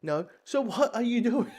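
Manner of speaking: a touch of an impatient hero fed up; exasperated Green Arrow. Retold or imitated. Green Arrow nagging Supergirl and Kong, mildly exasperated. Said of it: "Green Arrow saying".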